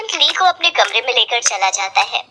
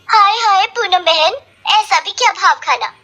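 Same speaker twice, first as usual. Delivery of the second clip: taunting; 7 semitones higher than usual. Acted. Neighbor taunts Poonam.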